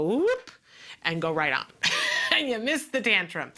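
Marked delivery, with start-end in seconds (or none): 0.0-0.5 high whoop dodging; playful whoop. Retold or imitated. Parent dodging a tantrum, a high playful whoop. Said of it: "you go".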